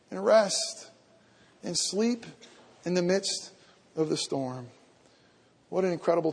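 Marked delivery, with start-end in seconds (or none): 0.1-4.7 soft, tender invitation. Real, not acted. Gentle sermon close.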